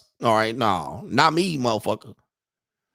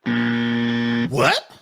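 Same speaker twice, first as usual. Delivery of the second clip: imitated baffled question with a rising end; mock disbelief, swooping up; mock incredulous; 3 semitones lower than usual. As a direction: play her thinking you're crazy. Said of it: "she look at you like you crazy".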